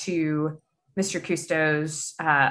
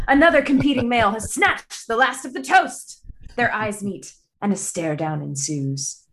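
put-on British accent. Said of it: "doing my best British accent".

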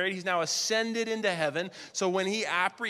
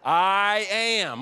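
"I am" called out loud; proclaimed divine name; 3 semitones higher, 6 dB louder than usual. Acted. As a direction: proclaim it like thunder. Jesus naming himself.

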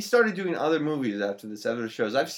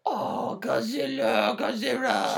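put-on sing-songy Asian accent; 2 semitones higher, 6 dB quieter, slower than usual. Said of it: "a sing-songy Asian accent".

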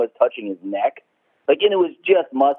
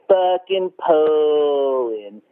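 very slow, drawn-out sneer on the name; mock boss voice; 3 semitones higher, much slower than usual. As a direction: stretch every syllable with contempt. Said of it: "he'd say my name like that".

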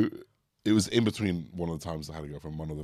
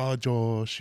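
a light Brazilian-Scouse lilt on Oh, Josh; imitating Brazilian Scouse accent; 4 semitones higher than usual. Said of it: "that kind of accent on".

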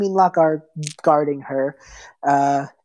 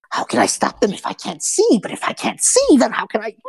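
panicked blind hag; 7 semitones higher than usual. Acted. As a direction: pitch shooting up in confusion.

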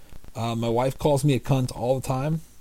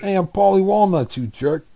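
Sopranos mobster voice; 5 semitones higher, faster than usual. Acted. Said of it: "more like someone from The Sopranos".

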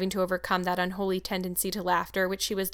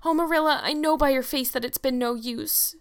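sorrowful; 6 semitones higher, 4 dB louder than usual. Acted. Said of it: "she said sorrowfully".

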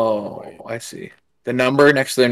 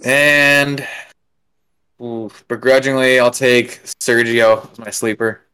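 slow, reluctant pick; conceding with real reluctance; begrudging; slower than usual. Real, not acted. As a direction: drag it out grudgingly. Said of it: "Why you say it like that".

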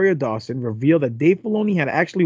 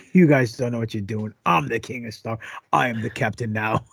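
imagined Filoni; 5 semitones lower than usual. Retold or imitated. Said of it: "He's probably saying".

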